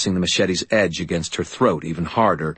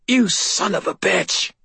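high-pitched anguished accusation; pained outburst; 13 semitones higher than usual. A narrator's reading. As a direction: let the pain pour through the insult. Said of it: "her voice overflowing with pain".

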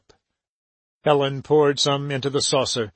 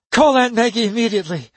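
higher, louder, fast urgent command; ringing order; 8 semitones higher, 4 dB louder, faster than usual. A narrator's reading. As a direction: snap out the order. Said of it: "she went on".

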